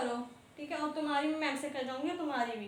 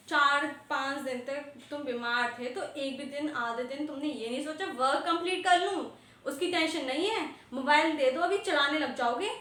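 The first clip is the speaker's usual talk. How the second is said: raised, exasperated scolding of a student; 5 dB louder than usual. Real, not acted. Teacher to student who skipped homework, angry scolding. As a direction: scold him for skipping work, getting louder.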